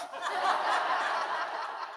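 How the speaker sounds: airy, high giggle; quick voiceless giggle; high breathy laugh. Real, not acted. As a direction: laugh at your own punchline. Laughs at own joke.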